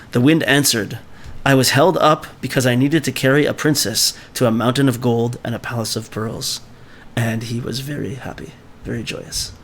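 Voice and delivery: steady storytelling read-aloud; story reading. Acted. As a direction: read the tale to the class.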